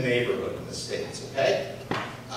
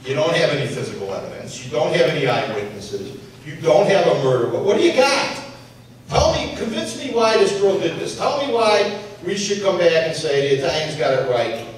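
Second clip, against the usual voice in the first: insistent challenge. Retold or imitated. Retold challenge to arresting officer.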